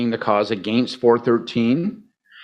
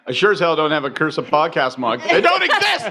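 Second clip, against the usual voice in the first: laughing; 3 semitones higher than usual. Real, not acted. Laughing about mugs.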